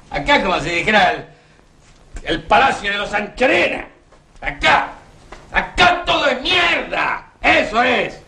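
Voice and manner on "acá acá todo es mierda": bitter shout. Acted. Bitter outburst about their country.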